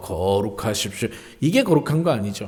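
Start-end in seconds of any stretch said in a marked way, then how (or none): 0.0-1.1 thickened, very low, soft put-on pulpit voice. Preacher showing a thickened pulpit voice, put-on deep voice. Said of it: "목소리 굵게 하고".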